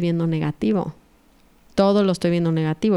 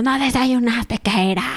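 a higher, half-acted yell at the kids; mock yell at the kids; 4 semitones higher than usual. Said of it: "gritándoles a los niños". (grito a medias de madre apurada)

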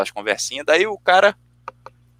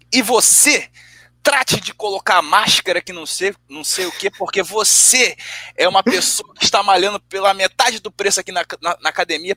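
mock officious telling-off, raised pitch; imitated scolding; 4 semitones higher than usual. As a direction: imitate him lecturing a customer. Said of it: "Falando assim mesmo com o cara".

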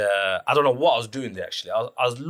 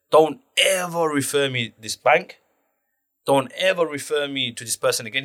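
indignant demand; 3 semitones higher than usual. Retold or imitated. Job seeker warning the agency off a bank, indignant. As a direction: lay down the law, drawing out each word.

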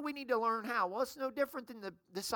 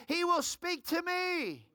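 slow, higher lead-in for the crowd; call for echo; 5 semitones higher, slower than usual. Shown as a demonstration. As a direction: model the response "He will speak to me" slowly. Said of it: "Just shout out, say".

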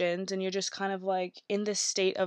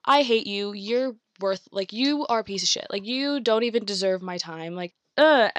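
mock angry rant. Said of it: "So then you're angry at them".

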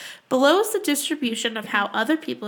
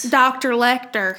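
Jodie Foster drawl. Retold or imitated. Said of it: "She talks like this".

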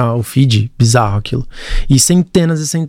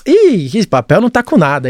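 higher-pitched, mildly dismissive mock voiceover; lightly voiced granddad narration; 6 semitones higher than usual. Producer mimics granddad rejecting paper in the video, mock dismissive. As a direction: lightly play granddad brushing it off. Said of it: "na narração, aí ele começa a anotar".

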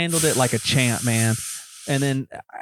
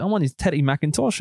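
lightly put-on prank-caller accent; Teddy McIntosh; 4 semitones higher than usual. Prank caller giving salesman a fake name, light put-on accent. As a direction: give the fake name in a slightly higher character voice. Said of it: "I'm doing it in my whole accent".

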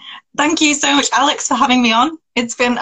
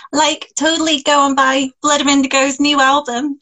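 put-on higher Valley Girl lilt, rising at the end; Valley Girl accent; 5 semitones higher than usual. Shown as a demonstration. Guest plugs host's album on request, Valley Girl accent. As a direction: attempt an American Valley Girl plug. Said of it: "make the accent that I want".

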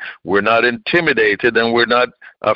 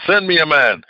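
lighter, near-usual echo of the boast; Goliath repeats. Retold or imitated. Preacher voicing Goliath's echoed challenge, lighter repeat. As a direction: let the challenge fall back. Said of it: "blustering and boasting and said".

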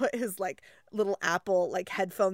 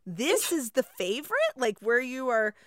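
patronizing teacher; 3 semitones higher than usual. Retold or imitated. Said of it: "And you're like".

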